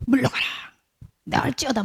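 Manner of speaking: 약간 높인 기도 명령 흉내; 가볍게 외치는 치유 선포 흉내; 큰 소리로 명령하듯. Acted. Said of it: "이러면서 큰 소리로". (큰 소리로 선포하는 척)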